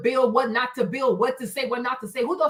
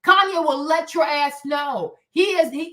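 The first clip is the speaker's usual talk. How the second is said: normal talking voice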